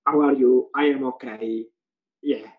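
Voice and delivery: imitated student reciting without interest; mock half-hearted classroom exchange; uninterested student. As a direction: go through the dialogue with no interest. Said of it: "they're not interested".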